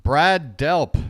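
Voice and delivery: loud, triumphant shout of the name; excited outburst. Real, not acted. Streamer finally recalls the singer and shouts it out. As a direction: blurt it out like you finally got it.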